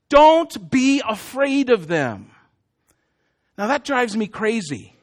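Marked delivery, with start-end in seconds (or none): 0.1-2.3 solemn God reading. Acted. God's command, read slowly.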